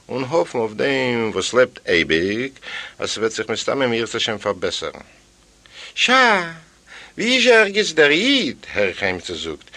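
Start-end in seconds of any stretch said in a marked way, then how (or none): 5.9-8.7 high call from the household; calling character voice. Acted. The rich household calling for the Jew, high. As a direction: call out high across the room.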